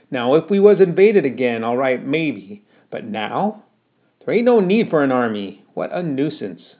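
put-on fed-up mother berating her boy; cross scolding mother. Ma scolds son, looked cross.

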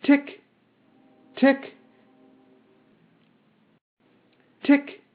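high, short spoken ticks; mechanical ticking. A narrator's reading. Metal man ticks between phrases, high mechanical ticking. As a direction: tick like clockwork, high and evenly spaced.

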